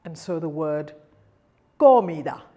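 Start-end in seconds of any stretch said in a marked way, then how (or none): 1.8-2.4 comida with a firm K sound; loud, clear hard C on comida. Shown as a demonstration. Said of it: "it becomes hard".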